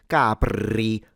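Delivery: Capri with a long, heavy rolled r; overdone trill. Shown as a demonstration. Teacher warning learners against an overdone trill in Capri. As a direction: exaggerate the r in Capri too much. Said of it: "Don't over-exaggerate it".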